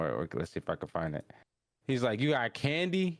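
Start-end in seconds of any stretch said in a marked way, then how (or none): 2.2-3.2 high, candy-hungry asking; eager question. Retold or imitated. Rudo asking the stranger about candy, high and eager. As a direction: ask it pitched right up, eagerly.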